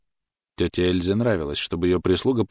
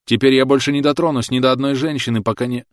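higher, louder desperate cry; anguished vow; 7 semitones higher, 7 dB louder than usual. A narrator's reading. Thomas crying out a vow to Clotilde. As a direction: swear it through tears.

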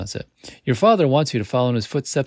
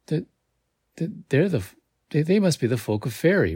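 halting, higher, stumbling words; breathed in awe; 7 semitones higher than usual. A narrator's reading. Friend recognises the fairy folk, halting in awe. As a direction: stammer it out in mild awe. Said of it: "breathes Derry".

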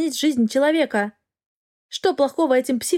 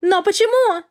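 much higher, loud squeal; shrieking; 9 semitones higher, 4 dB louder than usual. Acted. Anna rejected by the dragon, shrieking. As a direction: shriek it in outraged disbelief. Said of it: "взвизгнула Анна".

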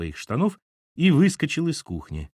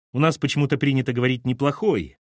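clipped; 5 semitones higher than usual. Acted. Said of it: "отчеканила Кира".

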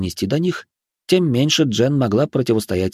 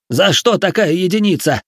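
pleading; 9 semitones higher, 4 dB louder than usual. Acted. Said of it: "взмолился Пузан".

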